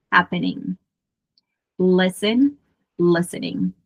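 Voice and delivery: "visiting" in American English, T tapped like R; American flapped T in "visiting"; American pronunciation. Shown as a demonstration. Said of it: "quase se torna um R".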